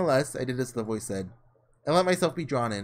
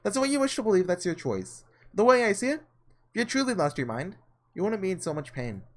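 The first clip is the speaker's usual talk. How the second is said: witch voice; 5 semitones higher than usual. Acted. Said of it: "The voice, still muffled and unclear".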